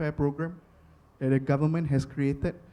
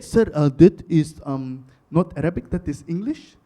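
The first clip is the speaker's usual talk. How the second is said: polite manager; 2 semitones lower than usual. Retold or imitated. Acts the hesitant manager replying.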